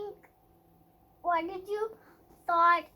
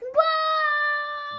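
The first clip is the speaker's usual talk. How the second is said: excited whoa; 10 semitones higher, 9 dB louder than usual. Real, not acted. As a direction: cry out in delight. Child excited by the story.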